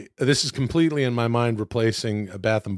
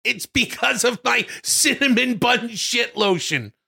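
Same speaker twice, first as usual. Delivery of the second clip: high silly voice; 12 semitones higher, slower than usual. Acted. Character voice, high.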